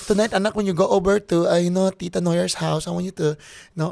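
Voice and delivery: lightly voiced Filipino mother; a hint of a Filipino mom accent. Son mimicking his mom's party plans, light Filipino mom accent. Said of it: "you know you sound like that".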